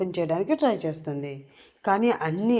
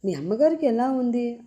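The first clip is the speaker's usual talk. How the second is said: a bit tense; 4 semitones higher than usual. Acted. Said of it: "కొంచెం టెన్షన్గా అడుగుతుంది".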